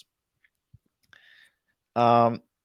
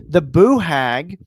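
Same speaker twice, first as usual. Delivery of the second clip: southern boo hag; 2 semitones higher, 7 dB louder, slower than usual. Shown as a demonstration. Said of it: "saying it with a southern accent".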